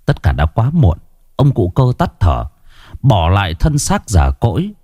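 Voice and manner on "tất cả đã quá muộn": usual speaking voice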